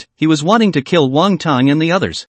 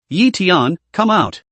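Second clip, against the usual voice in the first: calling out; 3 semitones higher, slower than usual. Acted. Father calls son out.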